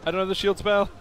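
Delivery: high, loud pained whine; pained yelling. Real, not acted. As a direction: cry out as you get hurt. Taking damage in game.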